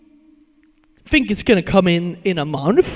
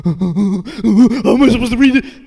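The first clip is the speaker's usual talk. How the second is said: higher, slower laughing question; 4 semitones higher than usual. Real, not acted. Streamer cracking up over a hard name to read, laughing. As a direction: ask it while cracking up.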